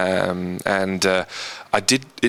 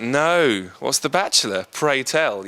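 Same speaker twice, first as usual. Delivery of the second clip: higher-pitched, acted puzzlement; curious reply; 5 semitones higher, slower than usual. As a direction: play up polite British curiosity. Acts out his own puzzled reply.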